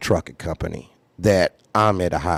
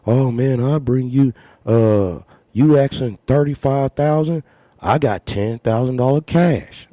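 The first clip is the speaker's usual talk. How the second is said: eager buyer; 6 semitones higher, 5 dB louder than usual. Retold or imitated. Lowball buyer, retold.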